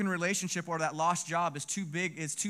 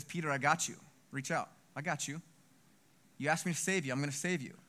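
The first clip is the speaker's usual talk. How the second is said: softer, lower, reassuring voice; gentle reassurance; 3 semitones lower, 4 dB quieter, faster than usual. Acted. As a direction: softly reassure someone you are rescuing. Jesus rescues and reassures Peter.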